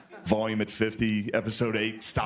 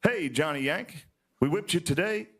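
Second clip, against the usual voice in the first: mock Southern rebel call, higher-pitched; Shelby Foote; 6 semitones higher than usual. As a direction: draw out a taunting Southern holler without real volume. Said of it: "They yelled out".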